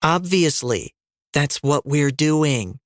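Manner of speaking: slow, dripping sarcasm; sarcastic condescending. Acted. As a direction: talk down to him, slowly. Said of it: "in her most sarcastic and condescending voice".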